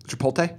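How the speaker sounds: "Chipotle" with L before T, rising at the end; mispronounced chi-pohl-TAY. Shown as a demonstration. Guessing the other version, "Chipotle" as chi-pohl-TAY. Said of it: "a lot of people call it Chipotle".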